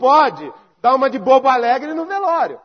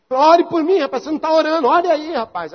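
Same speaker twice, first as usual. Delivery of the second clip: insistent anxious plea; 5 semitones higher than usual. Acted. Same man returns, more insistent.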